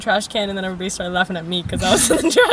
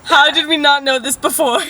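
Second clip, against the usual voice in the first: gushing agreement, higher and louder; delusional sister; 3 semitones higher, 4 dB louder, slower than usual. Acted. Playing the sister backing her up, hammed-up certainty. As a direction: drag out the obviously with total mock conviction. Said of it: "as delusional as me".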